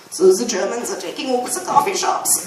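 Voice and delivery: mock German accent on the coffee shop line; playful fake German accent. Shown as a demonstration. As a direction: put on a light German accent. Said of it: "I was talking like that just randomly".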